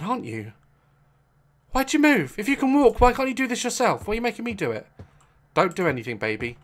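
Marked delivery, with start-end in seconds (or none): none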